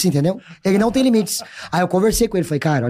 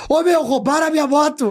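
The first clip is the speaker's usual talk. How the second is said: put-on out-of-control shout, high and pitched up; 8 semitones higher than usual. Retelling a man running after a motorcyclist in the street, imitating a man yelling. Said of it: "ele começou a gritar".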